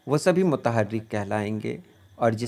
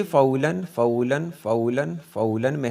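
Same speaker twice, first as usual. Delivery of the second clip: फ़ऊलन chanted four times, each rising at the end; rhythmic scansion. Shown as a demonstration. Poetry teacher chants the metre to show the rhythm. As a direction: beat out the metre evenly: fa-oo-lun. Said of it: "चार बार इसको पढ़ा".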